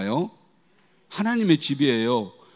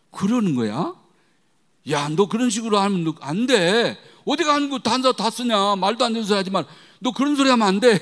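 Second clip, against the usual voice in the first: high, loud indignant scolding; angry scolding; 8 semitones higher, 6 dB louder than usual. Retold or imitated. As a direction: tell the friend off, fired up. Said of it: "우리 딸이 막 화가 나가지고". (높고 크게 화내며 꾸짖기)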